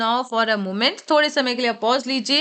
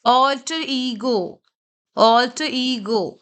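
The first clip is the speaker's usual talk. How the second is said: "alter" punched, "ego" lighter, very slowly; stress on ALTER; much slower than usual. Shown as a demonstration. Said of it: "जो capital में होंगे आप उस पर ज्यादा फोकस करेंगे". ("alter" पर ज़ोर, बहुत धीरे)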